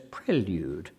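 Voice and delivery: "prelude" as PREL-yood; dictionary British PREL in "prelude"; short-E prelude. Shown as a demonstration. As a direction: give "prelude" a short first e. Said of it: "as the dictionary says".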